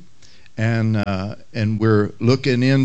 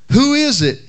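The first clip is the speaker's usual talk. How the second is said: parrot squawking; 10 semitones higher than usual. Retold or imitated. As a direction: screech it like a parrot. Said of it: "he called out again".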